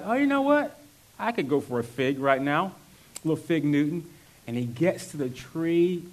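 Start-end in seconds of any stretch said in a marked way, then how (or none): 0.0-4.1 a playful peckish aside; hungry Jesus. Retold or imitated. Jesus on the road, voiced as a casual craving. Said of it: "and he's like".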